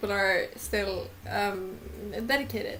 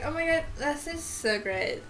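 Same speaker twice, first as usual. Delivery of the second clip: lightly voiced gushing girl; a hint of a bubbly fan voice; default character voice; 3 semitones higher, 3 dB quieter than usual. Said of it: "defaulting to that voice".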